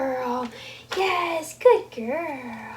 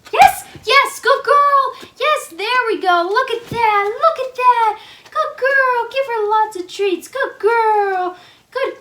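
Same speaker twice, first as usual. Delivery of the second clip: squeaky praising a dog; 7 semitones higher, 4 dB louder than usual. Real, not acted.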